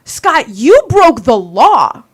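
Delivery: slow angry accusation. Retold or imitated. To Scott at the meeting, slow firm accusing retort. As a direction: lay down the law to him word by word.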